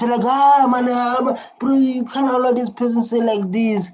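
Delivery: high, animated imitation of rowdy MPs; excited mock heckle. Reacting to parliament, an excited mock heckle. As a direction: egg the house on like a heckler.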